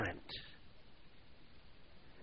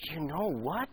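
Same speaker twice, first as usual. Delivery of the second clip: astonished elation; 3 semitones higher, 5 dB quieter than usual. Acted. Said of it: "with astonished elation".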